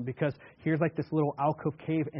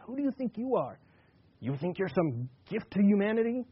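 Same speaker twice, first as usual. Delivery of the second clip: higher, hard-edged bitter challenge; calling him out; 4 semitones higher than usual. Retold or imitated. Woman at the well calls out Jesus, sharp scorn. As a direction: throw the question back at him, scornful. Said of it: "in that woman's tone, ... the bitterness, the hardness, and almost calling out Jesus".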